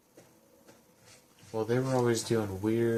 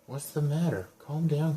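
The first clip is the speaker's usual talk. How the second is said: put-on louder, higher reply to a panicking kid; urging calm; 4 semitones higher, 6 dB louder than usual. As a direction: tell a frantic child to calm down, raised voice. Reading player's replies to frantic child.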